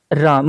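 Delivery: राम with the आ drawn out long, राााम; stretched vowel. Shown as a demonstration. Teacher showing pluta vowel by calling brother lovingly. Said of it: "आ की मात्रा को खींच दिया".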